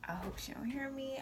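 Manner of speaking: tense whispered hope; sneaking a sandwich, whispering to herself. Retold or imitated. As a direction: breathe it out so nobody hears. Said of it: "I'm like".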